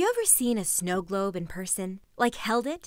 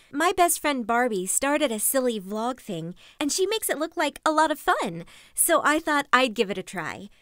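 forced cheer; 2 semitones higher than usual. Acted. Forced cheerful retake of vlog.

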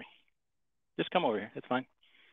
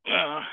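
strained grunt while pulling a wrench; effort grunt; 3 semitones higher than usual. Real, not acted. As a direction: grunt with effort mid-task. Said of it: "I don't mean to be grunting into the microphone".

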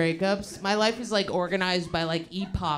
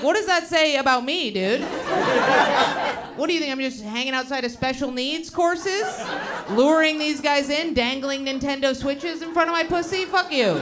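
louder, higher indignant rant at her friends; outraged comeback, pitched up and loud; 6 semitones higher, 5 dB louder than usual. Retold or imitated. Comic to her friends, loud indignant rant. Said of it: "I'm like".

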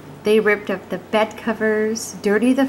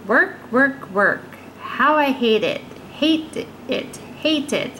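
put-on grumbling old woman; 3 semitones higher than usual. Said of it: "But still she grumbled".

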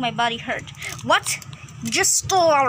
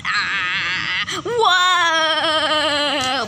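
startled cry; 3 dB louder than usual. Acted. Character startled by intruder.

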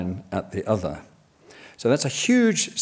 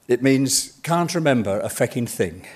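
put-on Galway accent. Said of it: "I try to do it in a Galway accent".

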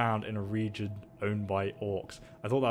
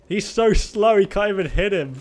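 louder and higher, thrilled by the fight; excited; 8 semitones higher, 9 dB louder than usual. Real, not acted. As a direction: cheer the brawl on, voice way up.

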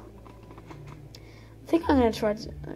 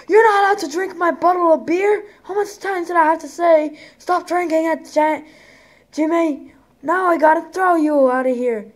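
high, loud mock tavern keeper scolding; angry bar owner; 4 semitones higher, 3 dB louder than usual. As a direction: play a fed-up barman throwing a drunk out.

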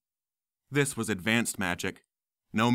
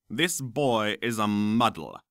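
slow sneering professor; slower than usual. Acted. Smape insists.

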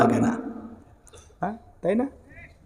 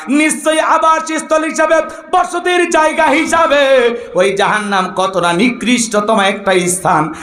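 melodic preaching; 3 semitones higher than usual. Acted. Preacher calling his brothers to listen closely, melodic preaching. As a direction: sing out the sermon, then settle.

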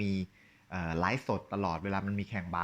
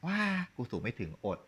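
a deflated sigh of ว้า, then กูสูงไม่ถึง อด said like a quitter; mock giving up; 3 semitones higher than usual. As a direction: sound like someone who has already given in. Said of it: "นี่คือคุณยอมไง". (ทำเสียงยอมแพ้ ท้อแท้แบบล้อเลียน)

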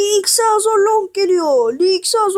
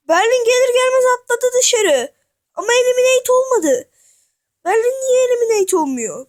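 higher, loud hyped play-by-play call; loud commentator; 5 semitones higher, faster than usual. Acted. Gamer calling the wrestling match for viewers, loud and hyped. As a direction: belt it out like a ringside announcer. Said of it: "Ben niye bu kadar yüksek sesle konuşuyorum?".

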